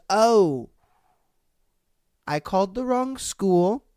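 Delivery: drawn-out apology after a halting realization; sheepish mimicry. Imitating a mother realizing she called the wrong school, sheepish. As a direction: back down slowly, then excuse yourself.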